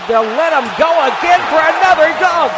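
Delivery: high, loud play-by-play burst; excited dunk call. Real, not acted. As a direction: shout the call over the crowd.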